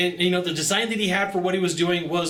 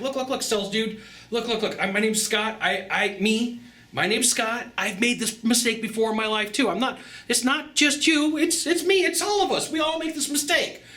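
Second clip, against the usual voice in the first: much higher, easy surfer dude voice; laid-back Hawaiian dude; 8 semitones higher than usual. Retold or imitated. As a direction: soothe him like a chill island guy. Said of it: "And I'm like".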